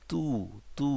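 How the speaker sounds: তু said thin and light, with a soft front t; তু pronounced light and fine like Arabic ت. Shown as a demonstration. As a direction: keep তু thin and narrow, no heavy t. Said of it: "একটু পাতলা, চিকন করে বলতে হবে".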